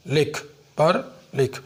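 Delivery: لکھ and پر said slowly and clearly; deliberate, slow demo words. Shown as a demonstration. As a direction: model each word carefully. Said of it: "یہ تلفظ دینا ہے".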